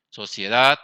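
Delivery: "sociedad" with a loud final "dad"; stress on last syllable. Shown as a demonstration. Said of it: "tiene el acento en la última sílaba".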